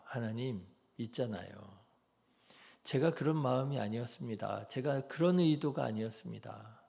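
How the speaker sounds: soft, earnest plea to 하나님; quiet, heartfelt confession in prayer; sincere pleading prayer. Shown as a demonstration. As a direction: pour out your story to God gently. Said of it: "하나님 앞에서 줄줄이".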